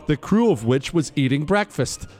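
formal citation read over music; crisp military citation. Acted. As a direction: read it like an official military commendation. Continues reading the citation.

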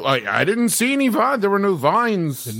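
high, incredulous disbelief; can't believe what he's hearing; baffled. Real, not acted. Confused denial of the vines.

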